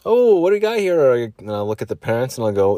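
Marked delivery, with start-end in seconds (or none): 0.1-1.1 high, loud showman's surprise; cowboy greeter. Acted. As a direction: hail the guests in a big cowboy voice. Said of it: "dress up as cowboy".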